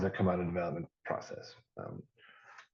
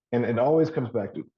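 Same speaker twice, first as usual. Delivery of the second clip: throat catching; 2 semitones higher, 4 dB louder than usual. Real, not acted. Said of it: "I'm choking myself".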